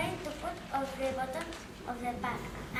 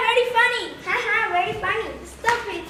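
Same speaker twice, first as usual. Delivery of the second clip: silly clown; 6 semitones higher, 7 dB louder than usual. Acted. Clown scolding partner playfully.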